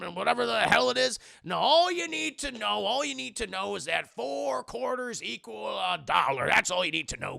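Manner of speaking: Pete voice. Retold or imitated. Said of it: "And Pete's like".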